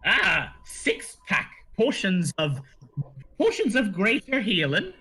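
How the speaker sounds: gnome shopkeeper. Acted. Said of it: "and he says".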